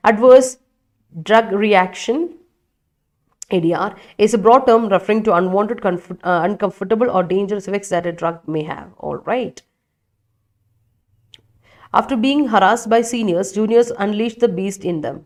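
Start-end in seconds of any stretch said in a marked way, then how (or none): 0.1-8.9 slow reading. Shown as a demonstration. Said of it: "reading definition slowly". 12.0-15.2 reads the example out very slowly; slowly reading a student's sentence aloud. Shown as a demonstration. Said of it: "reading student sentence slowly".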